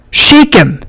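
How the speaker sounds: very high urgent yell. A narrator's reading. Rico leaning over the ring shouting at his dog, very high yell. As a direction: scream at your dog to shake him. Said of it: "Rico yells".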